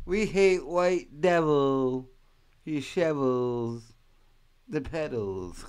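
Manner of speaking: slow, drawn-out mock poet delivery; half-hearted slam poet voice; slam poetry recital. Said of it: "they were doing slam poetry".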